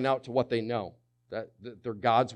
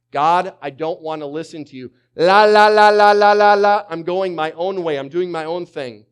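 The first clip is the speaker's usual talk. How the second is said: put-on loud childish la la chant, much higher; mocking rebel; 5 semitones higher, 16 dB louder than usual. Preacher mocking a rebel ignoring God, loud and sung high. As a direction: drown God out like a stubborn child. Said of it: "one of the most convenient ways".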